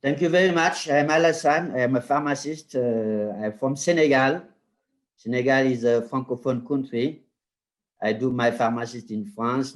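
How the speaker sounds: French-speaking Senegalese accent in English. Real, not acted. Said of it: "This is why you see my accents".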